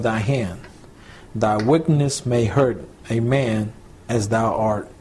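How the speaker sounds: slow, measured Bible reading; measured reading aloud of old scripture. Acted. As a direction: read the verses deliberately, pausing between phrases.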